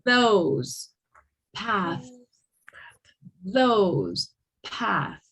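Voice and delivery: Those buzzed, Path breathy; teacher contrasts voiced and unvoiced TH. Shown as a demonstration. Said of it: "the softer one and the unvoiced one".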